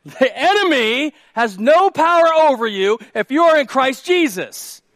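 high, forceful preaching shout; loud proclamation. Real, not acted. Preacher declares it for people in the back, loud proclamation. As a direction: drive it home to the back rows. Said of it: "for the people in the back".

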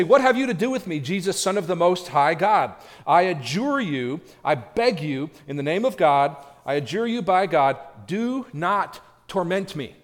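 loud, high desperate begging demon; pleading demons. Acted. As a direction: beg like a cornered demon for mercy. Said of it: "So they're begging".

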